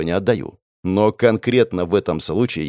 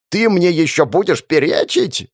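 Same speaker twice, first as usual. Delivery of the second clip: louder, higher boss yell; 7 semitones higher, 3 dB louder than usual. Acted. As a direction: bark it at the defiant girl. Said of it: "заорал он".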